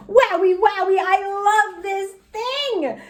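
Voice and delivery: high, slow gushing delight. Acted. Junie B. admires her new pen, high and gushing. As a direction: savour every word of the wowie.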